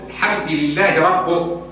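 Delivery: ربه read rabbuh, u on the ba; slow, say ربه ending in u; wrong ending on rabb. Shown as a demonstration. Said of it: "يقول ربه".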